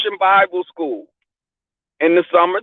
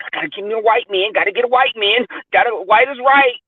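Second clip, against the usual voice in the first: mock eagerness; 3 semitones higher than usual. Acting out someone chasing white men.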